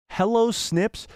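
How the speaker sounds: high, disbelieving Hello Snips; disbelieving quote. Real, not acted. Streamer replaying the line in disbelief, surprised. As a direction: repeat it as if you can't believe your ears. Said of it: "I thought I was hearing things".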